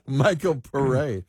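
PARÉ as "puh-RAY", stressed on the end; French pronunciation. Shown as a demonstration. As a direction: give PARÉ its French final "ay". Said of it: "oh, he's French".

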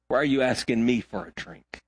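low, understated sarcastic delivery; a touch of sarcasm, dropped low; mild sarcasm. Acted. Samaritan woman answers Jesus' request for water, mildly sarcastic. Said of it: "a little bit of sarcasm in her voice".

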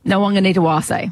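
rattled off as one word; quick and easy. Shown as a demonstration. Co-host shows the presenter how to say a player's name, quick and easy. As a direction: say Nawaqanitawase smoothly and effortlessly. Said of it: "so well and so quick".

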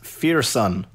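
the band name, first part said like "fear"; pronounced as written. Shown as a demonstration. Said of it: "the band is pronounced".

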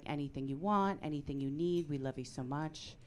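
soft, low, tender reassurance; supportive. Retold or imitated. Supportive husband talking to the gay daughter, tender. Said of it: "my husband's incredibly supportive of our gay daughter".

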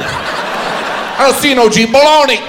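high, ignorant mock insistence; stubborn word-coiner. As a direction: protest up high, then blurt it. Acts out stubborn pronunciation decider.

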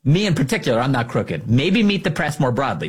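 lightly voiced mock of the anchor's defense; a hint of the anchor, protesting primly; mocking her defense. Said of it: "that was a weird, uh, sort of defense".

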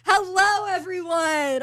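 high-pitched hello to a roomful; over-cheery American greeting. Retold or imitated. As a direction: play up the chirpy American newcomer. Clearly American newcomer greets party.

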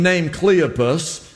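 normal talking voice

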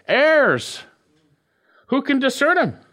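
ERRORS thrown high up front; preacher showing Hebrew emphasis; emphatic word order. Shown as a demonstration. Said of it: "Here we have it like this".

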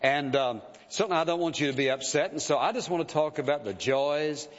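mock timid preacher, hemming and hawing; halting, noncommittal sermon opening; hem-hawing preacher. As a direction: hem and haw your way into it. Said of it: "And I hem-hawed around".

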